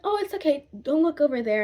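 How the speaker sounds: put-on calm the child down; a touch of mom soothing. Mom comforting scared daughter, lightly voiced. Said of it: "my mom was like".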